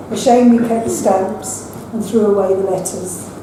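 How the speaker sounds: measured, unhurried recital of a poem; poem reading. Acted. Poet reading to a hushed audience, measured recital. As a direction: read each line as a small gift. Poet reads own poems aloud.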